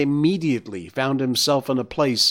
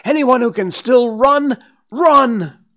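high, loud, urgent yelling; shouted warning; 12 semitones higher, 8 dB louder, slower than usual. A narrator's reading. Galloping deer warning others to flee, urgent shouting. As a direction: yell for everyone to flee, pitched right up.

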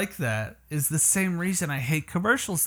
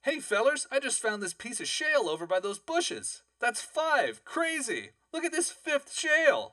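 hick voice; 10 semitones higher, 5 dB quieter than usual. Acted. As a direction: act the excited yokel, pitched way up. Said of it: "Someone's quite the actor over there".

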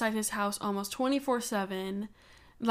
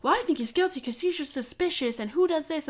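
Nancy Grace; 5 semitones higher than usual. Retold or imitated. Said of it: "she was like".

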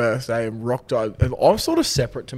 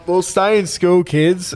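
mock public-service voice; 6 semitones higher, 6 dB louder, slower than usual. Mock message to young listeners.

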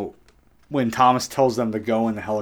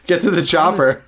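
loud, higher mock Austrian action hero; Arnold Schwarzenegger; 6 semitones higher, 7 dB louder than usual. Co-host quotes action-film catchphrase, loud mock Austrian. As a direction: call it out in a hammy Austrian accent. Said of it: "imagine if Arnold Schwarzenegger was Irish".

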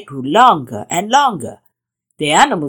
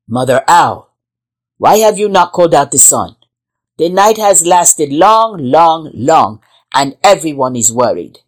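louder, booming lion king; king's voice; 2 semitones lower, 4 dB louder than usual. Acted. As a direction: speak as a commanding king. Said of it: "King Lion asked".

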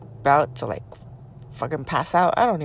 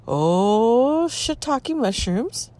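much higher, slow, scared minced oath; frightened squeak; 7 semitones higher, much slower than usual. Retold or imitated. Caught by the creature's stare, high frightened squeak. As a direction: squeak it out in alarm. Creature turns and looks at her.

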